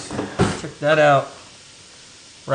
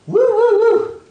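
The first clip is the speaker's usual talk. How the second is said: sudden high, loud whoop; stung woo; 4 dB louder, slower than usual. Real, not acted. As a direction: yelp it out as the onions sting. Onion fumes sting his eyes.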